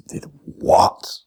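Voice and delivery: a stunned, slow whisper of disbelief; astonished whisper. Retold or imitated. Imagining his own shock at what someone did, whispered. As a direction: breathe it out, slow and voiceless.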